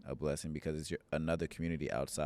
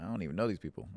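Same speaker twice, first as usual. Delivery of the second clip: retold protest, pitched higher; incredulous protest; 4 semitones higher, faster than usual. Speaker protesting inwardly about sharing with strangers, incredulous. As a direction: object in mild disbelief, voice lifting. Retelling incredulous reply to Holy Spirit.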